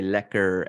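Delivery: "lekker" with the final R sounded; Dutch pronunciation. Shown as a demonstration. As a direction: say "lekker" the Dutch way, R pronounced at the end. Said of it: "the pronounce the R is, is Dutch".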